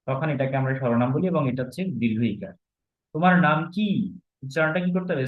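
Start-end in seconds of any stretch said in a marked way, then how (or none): 3.1-3.9 তোমার নাম কি with কি long and stressed. Shown as a demonstration. Teacher asking for a name as example, stressed long কি. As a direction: lean on কি and hold its vowel, voice raised. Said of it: "stress দিতে হবে".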